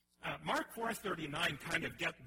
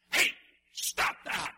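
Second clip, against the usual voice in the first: loud, casual shout at the storm; mock rebuke; 10 dB louder, slower than usual. Jesus telling the thunderstorm off, loud casual shout. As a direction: tell the thunder off like a kid.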